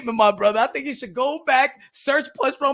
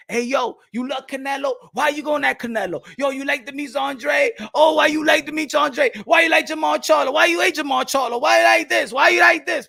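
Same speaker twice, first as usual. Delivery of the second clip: mocking critics; 2 semitones higher than usual. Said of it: "people be like".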